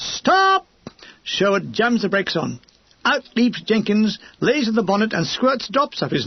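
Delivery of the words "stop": sharp, high shouted "Stop!"; sudden shout. Acted. Major yelling at his driver to halt, sudden shout. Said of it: "he suddenly shouts".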